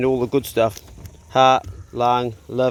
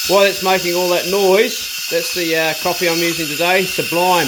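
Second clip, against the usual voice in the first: raised voice over a machine; talking over noise; 4 semitones higher, 4 dB louder than usual. Real, not acted. Coffee maker explains over the noisy machine, raised voice. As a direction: pitch it up to carry over the racket.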